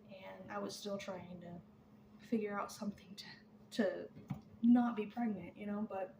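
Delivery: breathless, gasping between words; out of breath. Real, not acted. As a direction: talk while short of breath. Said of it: "I'm, like, out of breath".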